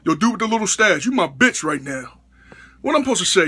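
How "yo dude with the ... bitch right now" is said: lower, menacing inmate voice; lightly voiced prison bully calling him out; prison tough guy. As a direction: growl it like a cellblock bully. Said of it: "if I was in prison".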